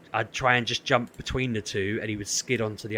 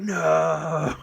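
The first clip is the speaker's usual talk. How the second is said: dismayed cry; 6 semitones higher, 6 dB louder than usual. Retold or imitated. Chat reacting to death.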